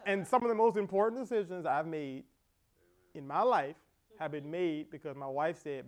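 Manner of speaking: ordinary talk, nothing marked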